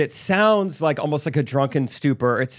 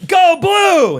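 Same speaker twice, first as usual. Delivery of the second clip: high, full-throated cheer; yelling; 11 dB louder than usual. Retold or imitated. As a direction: roar it like a fan. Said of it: "He's yelling into the, into the overhead speaker".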